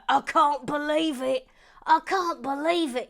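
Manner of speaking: loud, high exclamation; amazed disbelief. Pretend. Host congratulates a new member, amazed disbelief. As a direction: burst out in disbelief, repeating it.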